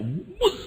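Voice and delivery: very high swooping whoosh; high mock-scream whoosh; imitated plunge. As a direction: mimic the sudden drop. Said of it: "Itu semua teriak".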